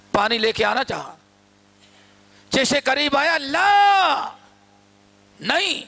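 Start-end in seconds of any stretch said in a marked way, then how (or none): 3.4-5.8 high, drawn-out rebuke; forceful scolding. Retold or imitated. Father rebuking his son who brings water, forceful high scolding. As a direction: scold with a sudden raised no. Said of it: "بڑے زور سے ڈانٹا".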